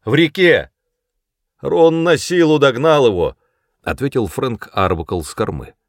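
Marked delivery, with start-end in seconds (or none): 0.0-3.4 high, loud shout across the river; man shouting from the stern; calling back. A narrator's reading. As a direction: yell the news to the shore.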